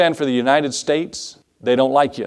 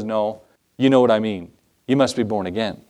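lower, gentle reassurance; kind and sweet; 5 semitones lower than usual. Retold or imitated. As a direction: explain it kindly, dropping the pitch. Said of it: "very kindly and sweetly says".

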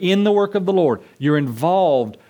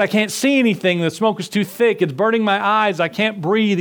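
higher, strained and frightened; scared little brother; 6 semitones higher than usual. Acted. Trapped little brother tells his rescuer he can't breathe, frightened. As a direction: plead that you can't breathe. Trapped boy choking in smoke.

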